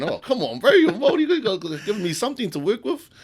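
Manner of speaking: playfully begging a client for ideas; mock exasperation. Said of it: "you're going".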